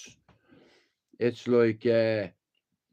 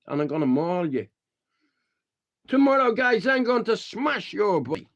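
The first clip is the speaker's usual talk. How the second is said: raised, heated threat with a yelled finish; retold threat; 6 semitones higher than usual. Telling a fan off outside the stadium, heated threat. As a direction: warn him off like a street tough. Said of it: "I was like".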